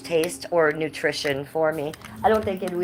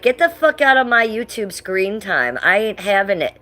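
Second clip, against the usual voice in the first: a touch louder, sassy pet voice for the shrimp; voicing the shrimp; 3 semitones higher, 6 dB louder than usual. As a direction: give the shrimp an attitude, mock tough. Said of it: "Coconut's like".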